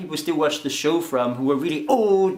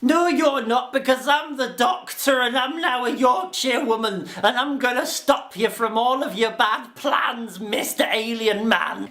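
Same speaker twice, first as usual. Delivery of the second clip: heroic Doctor; 6 semitones higher than usual. Pretend. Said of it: "the Doctor is like".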